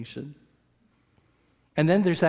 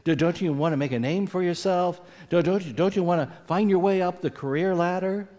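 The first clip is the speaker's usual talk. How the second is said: coaxing, quick and higher, egging you on; voice of ambition; 5 semitones higher, faster than usual. Retold or imitated. Preacher voicing ambition tempting his congregation, coaxing and higher. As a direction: tempt the listener like a pushy inner voice. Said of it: "That voice which says".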